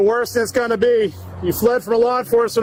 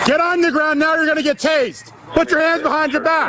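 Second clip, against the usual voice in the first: firm commands; 5 semitones higher than usual. Real, not acted. Cop commanding suspect.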